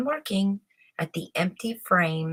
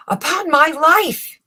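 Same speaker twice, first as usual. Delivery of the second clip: higher and louder, startled gasp of words; shocked exclamation; 9 semitones higher, 9 dB louder than usual. Acted. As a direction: blurt it out in alarm. Chamberlain shocked at empty looms.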